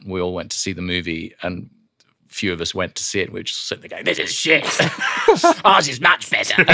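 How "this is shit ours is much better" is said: higher-pitched, laughing mock outburst; retold gleeful verdict. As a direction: say it high, breaking into laughter. Acted retold quote, amused.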